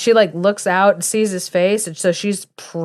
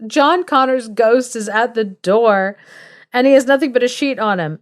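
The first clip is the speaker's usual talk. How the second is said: high, alarmed mock cry; mock scream; 4 semitones higher than usual. Servant boy warning the doctor of a ghost, mock screaming. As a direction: sound the alarm in a higher voice. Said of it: "he starts screaming".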